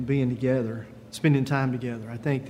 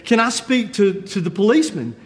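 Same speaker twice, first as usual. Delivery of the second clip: higher-pitched, mock-alarmed caller; mildly freaking out; 4 semitones higher than usual. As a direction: act a touch of rising panic. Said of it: "freaking out a little bit".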